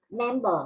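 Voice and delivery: "member" with an audible B after the M; sounded B. Shown as a demonstration. Teacher showing students the pronounced letter, clear B in "member". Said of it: "là chữ B và được phát âm".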